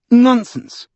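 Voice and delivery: high, loud dismissal; fervent cry. A narrator's reading. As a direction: brush his fear aside with fervour. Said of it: "she cried with shining eyes".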